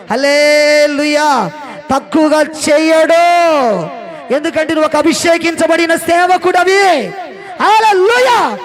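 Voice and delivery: high, loud fiery preaching; full-force preaching. Real, not acted. Preacher rousing the congregation, shouting high and loud. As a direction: shout the blessing over them.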